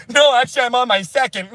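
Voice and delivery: high, cheery caricature voice; mock sheepish diners. Mocking vaccinated friends chatting at dinner, high caricature voice. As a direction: greet friends like a gullible goody-goody.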